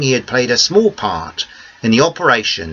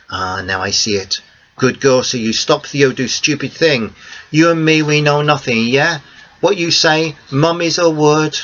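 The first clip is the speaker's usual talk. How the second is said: put-on higher, conspiratorial old Greek man; a bit higher, a friendly old Greek man sharing a secret; Theo's voice; 4 semitones higher than usual. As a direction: Greek cafe owner promising silence, pleased. Theo agrees to keep quiet.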